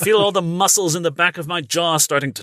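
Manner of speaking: talking through clenched teeth. Shown as a demonstration. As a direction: keep the jaw tight, teeth shut. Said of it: "keep your teeth closed when you talk".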